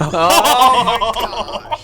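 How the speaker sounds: surprised. Real, not acted. Amazed at the stolen key.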